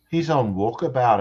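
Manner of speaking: put-on Australian accent. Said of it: "that's a terrible accent".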